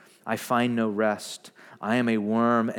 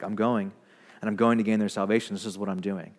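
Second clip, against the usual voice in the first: cool and calculated; 4 semitones lower, faster than usual. Retold or imitated. Jesus pictured strolling to the cross, mildly nonchalant. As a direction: toss it off as if nothing's at stake. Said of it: "Jesus went cool to the cross".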